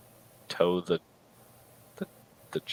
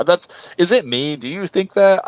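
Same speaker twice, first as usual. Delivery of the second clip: incredulous; 8 semitones higher, 6 dB louder than usual. Real, not acted. Incredulous aside.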